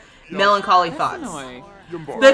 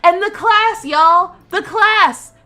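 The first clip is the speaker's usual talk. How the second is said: high, loud shouting rant; furious rant; 10 semitones higher, 5 dB louder than usual. Real, not acted. Player furious at wasted money in her Sims vet school, shouting. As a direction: let the anger boil over into shouts. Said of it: "I'm so angry right now".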